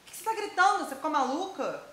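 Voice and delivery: high-pitched, indignant questioning; alarmed, scolding mother. Acted. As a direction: demand an explanation like an exasperated mother. Mother scolds daughter woken at night.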